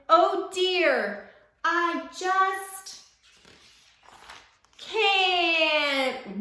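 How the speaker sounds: scared whimper. A narrator's reading. Scared koala refusing to let go.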